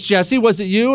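questioning wife. Acted. Wife to husband about eaten rolls, mock suspicion.

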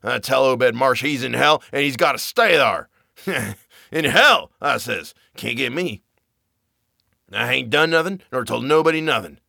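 lightly voiced frenzied old sailor; crazed old man, wild and cackling; screaming old man. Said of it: "Zadok was really screaming now".

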